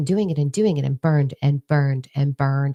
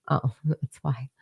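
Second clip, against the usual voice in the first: mock relief; 7 dB quieter, slower than usual. Mock relief at finding a label.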